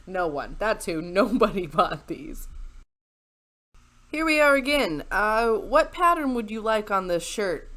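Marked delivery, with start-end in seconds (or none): 4.1-7.7 mock computer voice. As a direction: play the computer cheerfully asking. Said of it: "said the computer".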